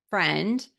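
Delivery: "friend" set apart after a pause, with a light rising lift; pause, then lift "friend" gently; emphasis on friend. Shown as a demonstration. Mentor stressing friend to art students. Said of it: "emphasis on the word friend".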